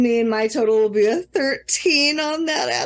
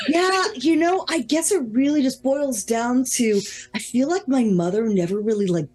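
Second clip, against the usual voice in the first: mock confiding friend; 5 semitones lower than usual. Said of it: "being like".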